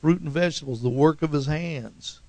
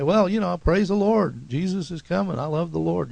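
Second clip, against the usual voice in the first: higher-pitched, lightly acted churchgoer; church talk; 5 semitones higher than usual. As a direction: lightly put on everyday church-folk talk. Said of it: "talk like we talk at church".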